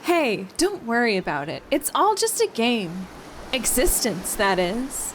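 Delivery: weak attempt at a Russian accent. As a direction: try for Russian, barely landing. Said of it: "I can't do Russian".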